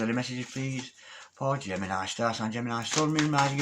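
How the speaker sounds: soft chanted invocation to the spirits; prayer. Acted. Tarot reader calling on spirits for Gemini, murmured prayer. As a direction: murmur the call for messages like a prayer. Invokes spirits over the cards.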